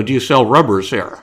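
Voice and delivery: called out loud across the store; loud question to the druggist; loud announcement. Retold or imitated. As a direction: announce it to the whole shop. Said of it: "announced out loud".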